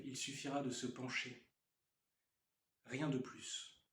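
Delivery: measured poem recitation with pauses between phrases; poetry reading. Acted. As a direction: read it as verse, line by line. Reads own poem aloud.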